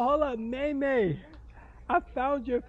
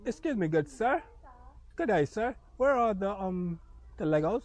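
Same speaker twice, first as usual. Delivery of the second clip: mock English accent; 5 semitones lower than usual. Uncle asking where the Legos are, mock English accent. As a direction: lower put-on British gentleman. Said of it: "He said your accent is not it".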